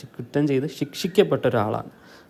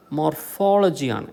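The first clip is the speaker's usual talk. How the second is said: മോർഫോളജിയാണ് with FOL raised and louder; stress on FOL; 3 semitones higher, 3 dB louder than usual. Shown as a demonstration. Teacher showing the correct form, FOL stressed in മോർഫോളജിയാണ്. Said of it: "കറക്റ്റാണ്".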